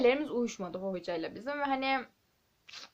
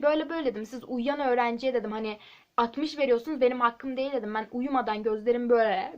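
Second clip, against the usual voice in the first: louder insistent complaint to the teacher; student protesting an unfair grade to the teacher, louder; retold protest; 6 dB louder than usual. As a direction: argue for your grade with rising force. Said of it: "dedim ki".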